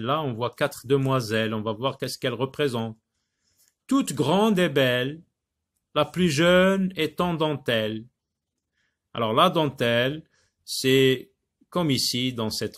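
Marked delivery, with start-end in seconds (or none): 3.9-8.0 raised, louder recital of the verse; poem reading. Acted. Teacher rereads verses before explaining them, projected recital. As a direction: declaim the verse clearly for a class.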